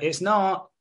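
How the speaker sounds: high retold retort; mock contradiction. Woman argues back at drunk guy, mock-insistent.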